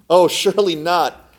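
slow, drawn-out protest; a mild cry of disbelief; dismayed cry. Acted. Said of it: "cried the man".

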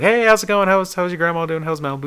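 high-pitched chirpy retold hello; casual greeting. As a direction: greet a pal in a put-on high voice.

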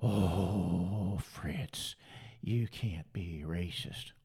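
slow, low whispered mimicry; breathy mock-scold whisper. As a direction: whisper the critic's line as a sneering parody. Mocking critics again.

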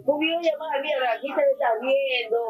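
real crying as she remembers her son; real tearful voice. Real, not acted. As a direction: voice breaking into tears, pitch up. Grieving mother recalls her son. (madre llorando de verdad mientras recuerda a su hijo)

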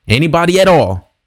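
inviting anyone who needs prayer, called out high; calling out to a crowd. Retold or imitated. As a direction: call it out across an auditorium. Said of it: "I said it one more time".

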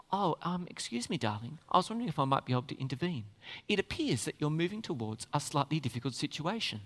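soft, low, prim and overly polite; mock a genteel parent gently asking the child to stop. Parent at the stove, to the toddler, absurdly polite and soft.

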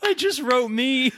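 cracking up mid sentence; high helpless laughter; laughing. Real, not acted. Realizes he wrote himself in.

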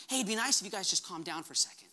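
mock-casual Jesus suggesting calm; casual suggestion. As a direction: toss it off as a mild hint. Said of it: "He wasn't suggesting".

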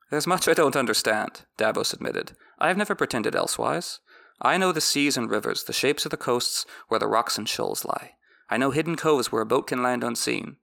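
measured audiobook reading; story narration. A narrator's reading. Recapper reads the book passage aloud in a measured narration. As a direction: read the chapter like an audiobook narrator.

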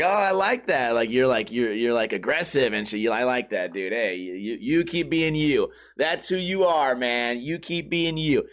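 lightly voiced hippie soothing a hothead; a hint of a peace-loving hippie; easygoing hippie. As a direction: defuse it with mellow, rambling approval. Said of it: "trying to diffuse the situation 'cause he's like a hippie".

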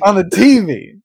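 teasing Southern T V, stress on the T; mock Southern accent. Echoing co-host's accent back at him, teasing. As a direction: echo the Southern say of T V. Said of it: "mock my Southern accent".

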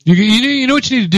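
high, held-out little "hi"; tiny mock on-air hello; mimicked radio voice. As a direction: imitate a shy guest's high radio greeting. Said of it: "That was a radio voice right there".

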